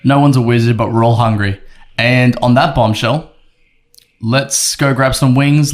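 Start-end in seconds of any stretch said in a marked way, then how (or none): 2.0-5.7 slow, grand show-closing delivery; dramatic TV host sign-off. Pretend. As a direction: sign off like a TV presenter.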